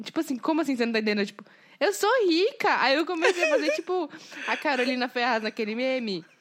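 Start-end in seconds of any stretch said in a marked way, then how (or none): 0.0-2.8 affronted, indignant, insistent tone. Recounting a night's conversation with a partner, the speaker acts it out mock-indignant.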